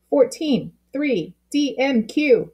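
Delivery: letters called out high and brisk, game-like. A narrator's reading. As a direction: call the letters out to her like a quiz. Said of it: "he shouted".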